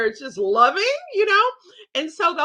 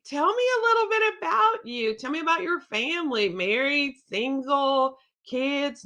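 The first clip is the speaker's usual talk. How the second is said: inviting host; 3 semitones higher than usual. Shown as a demonstration. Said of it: "So I say".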